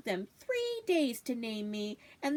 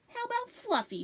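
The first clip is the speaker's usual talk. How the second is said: hopeful; 13 semitones higher than usual. Acted. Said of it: "she offered hopefully".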